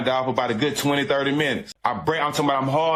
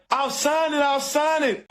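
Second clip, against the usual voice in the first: high, pleading imitation of a sobbing bride; mock crying bride; 9 semitones higher, slower than usual. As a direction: mimic her begging through tears, much higher. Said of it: "she hard down crying".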